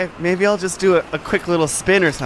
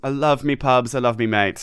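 mock British; 3 semitones lower than usual. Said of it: "When we try to go British, you go Australian".

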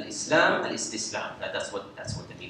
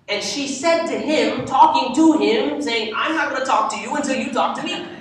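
triumphant explanation; 9 semitones higher than usual. Retold or imitated. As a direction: lay out the catch with rising glee. Abu Hanifa explains the oath triumphantly.

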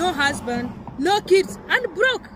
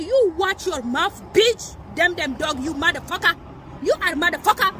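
put-on African accent kicking in; 4 semitones higher than usual. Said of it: "My African accent just kicking".

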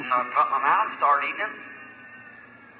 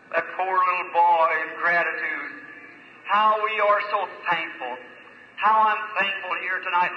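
earnest pulpit prayer, swelling and easing; preacher's heartfelt prayer over the meeting; fervent prayer. Acted. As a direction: plead with God for the audience. Preacher leads the congregation in prayer.

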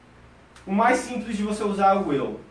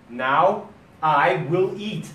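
slow model sentence; much slower than usual. Shown as a demonstration. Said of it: "E sem o go".

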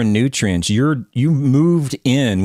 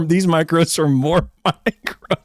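laughing mock quote; 4 semitones higher than usual. Mocking quote while laughing.

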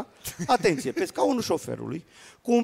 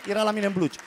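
ordinary delivery

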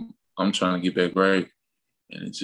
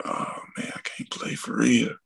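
whispered, then slow and deflated; under his breath; 3 semitones higher, 4 dB quieter, slower than usual. Retold or imitated. Benched player muttering to himself at the lineup, slow and deflated. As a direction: mutter it to yourself as the hope dies.

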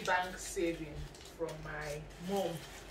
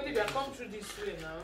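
macho voice. Real, not acted. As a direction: put on a man's voice. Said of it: "Why are you talking like a man?".

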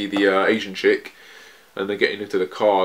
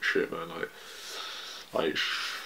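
urgent hushed whisper; 3 semitones lower, 12 dB quieter than usual. Acted. Jean whispering to his friends to stop embarrassing them. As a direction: whisper it so the locals can't hear.

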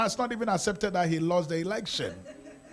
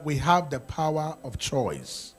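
slow deliberate declaration; 3 semitones lower, slower than usual. Shown as a demonstration. Pastor leading the congregation in a slow, firm declaration. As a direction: say it slowly, word by word. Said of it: "Can we say that together?".

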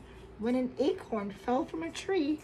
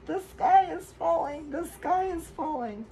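high, louder panicked squawk; frightened scream; 6 semitones higher, 6 dB louder than usual. Acted. Turkey Lurkey and friends screaming in fright. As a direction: shriek it as the turkey runs. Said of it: "Turkey Lurkey screamed".

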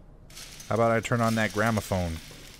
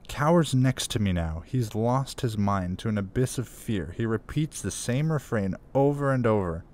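put-on American accent. Player reads the officer's note aloud in an American accent. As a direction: read the soldier's note in a light American accent. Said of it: "I'm just gonna do my American accent".

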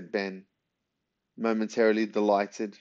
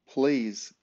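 pleading; 3 semitones higher than usual. Acted. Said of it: "pleaded Ben".

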